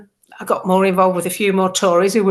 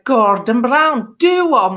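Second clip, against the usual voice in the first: cheeky dismissal; 3 semitones higher, 4 dB louder, slower than usual. Retold or imitated. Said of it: "I did this do one thing".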